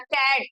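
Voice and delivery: कैट said with stress on the whole word; stressed syllable. Shown as a demonstration. Teacher demonstrating a stressed syllable, stress on कैट. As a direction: put weight on कैट. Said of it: "इस पे जोर देना पड़ता है".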